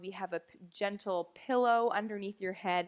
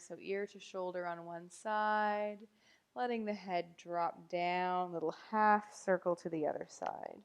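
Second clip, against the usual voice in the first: calm, gently lowered meditation delivery; guided meditation; 4 dB quieter than usual. Real, not acted. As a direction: guide them softly into the breath, with long pauses. Guides breathing and gentle movement.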